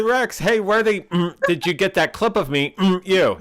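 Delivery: imitating the streamer. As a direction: squeak out a hammed-up quote. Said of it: "He said".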